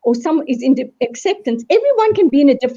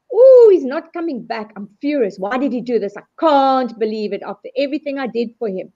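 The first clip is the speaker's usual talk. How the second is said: acted anger; 2 semitones higher than usual. Jilted girlfriend acting out her anger, mock angry. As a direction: play the jilted girlfriend, fuming. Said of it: "Then the anger".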